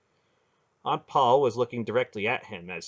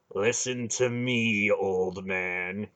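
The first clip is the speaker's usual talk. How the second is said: slow, menacing, grim warning; awful voice; much slower than usual. Acted. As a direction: lay down a grim threat, slowly. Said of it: "Garion said in an awful voice".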